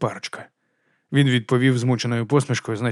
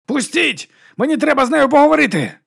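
very high desperate shouting; drunk man yelling; 14 semitones higher, 5 dB louder than usual. A narrator's reading. Drunk man yelling at bouncers to let him in. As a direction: force your way past the bouncers, yelling.

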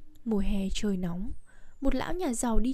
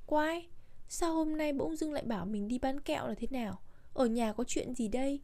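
softer, puzzled inner question; thinking to oneself; 3 semitones higher, 7 dB quieter than usual. A narrator's reading. Servant suspicious of master's errand, softly puzzled to himself. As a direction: wonder about it under your breath. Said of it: "Người đầy tớ nghĩ bụng".

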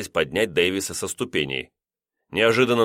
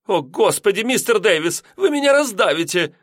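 much higher, alarmed cry; exclaiming; 12 semitones higher, 4 dB louder than usual. A narrator's reading. Landlady crushed by lodger's weight, high alarmed cry. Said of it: "воскликнула".

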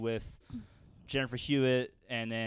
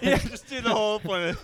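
gangster voice; 6 semitones higher, 5 dB louder than usual. Acted. Still in gangster voice.

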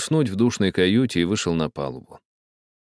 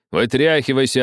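a touch of shouting; 6 semitones higher, 4 dB louder than usual. A narrator's reading. Captain shouting at the old man. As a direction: order him off. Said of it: "крикнул капитан".

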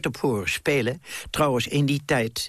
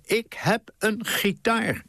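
high, slow call upward; boy shouting up to his mother, high and slow; shouted up the stairs; 9 semitones higher, slower than usual. Retold or imitated. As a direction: yell it up to the third floor. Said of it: "En ik schreeuwde naar boven".

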